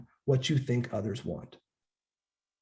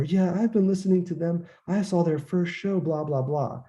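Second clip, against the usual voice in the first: eager fake fan; 5 semitones higher than usual. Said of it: "You're like".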